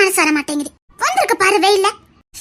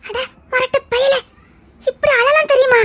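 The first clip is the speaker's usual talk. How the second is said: playful scolding; 5 semitones higher, slower than usual. Acted. Teasing him for crying.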